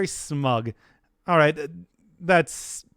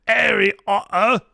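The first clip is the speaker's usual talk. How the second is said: Sorting Hat voice; 6 semitones higher than usual. Acted. Sorting hat judging Harry Potter, higher mock-pompous hat. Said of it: "I don't remember how that hat talked".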